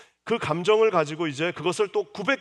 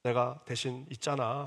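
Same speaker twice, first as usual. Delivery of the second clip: softer, lower, tender consoling; comforting husband; 4 semitones lower, 5 dB quieter, slower than usual. Acted. Loving Jacob comforting Rachel, soft and tender. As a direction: gently soothe a hurting wife. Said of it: "이렇게 위로를 하든지".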